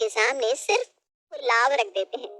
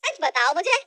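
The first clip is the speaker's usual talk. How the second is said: slow and much higher disbelief; can hardly believe the figure; shocked mother-in-law; 7 semitones higher, slower than usual. Acted. Mother-in-law learns her son gives only five thousand, much higher and slow.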